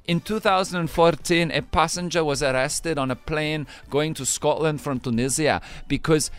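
Scottish-voiced story reading; Scottish accent. Host reading the second news story, Scottish accent. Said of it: "doing the accent of Scotland today".

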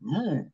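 soft "ooh" of a sick stomach; imitated queasy moan. Nauseous teammate walking to the line of scrimmage, imitated queasy moan. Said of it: "I hear Tunch on the way".

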